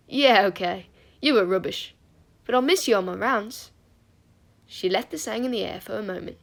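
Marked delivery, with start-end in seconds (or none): 0.1-3.7 teasing. A narrator's reading. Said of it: "Her face lit up".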